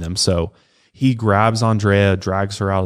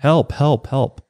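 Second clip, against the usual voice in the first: mock yell for help; 6 semitones higher, slower than usual. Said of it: "And he continues".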